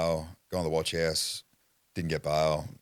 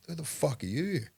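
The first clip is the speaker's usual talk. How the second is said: startled shout; 11 semitones higher than usual. Retold or imitated. Startled by cop in shower.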